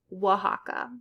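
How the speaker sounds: Oaxaca with the X as an H sound. Shown as a demonstration. Teacher showing learners the H sound of X in Oaxaca. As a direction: say Oaxaca the Spanish way, X like an H. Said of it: "sometimes pronounced like H".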